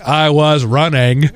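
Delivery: lightly imitated film character, slow; drawn-out recital of a well-known line; a hint of a slow-talking movie character; famous movie line. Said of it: "Tom Hanks said".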